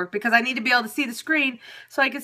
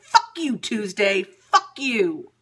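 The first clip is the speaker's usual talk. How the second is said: fed-up cursing; 3 semitones higher, slower than usual. Retold or imitated. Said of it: "I'm like".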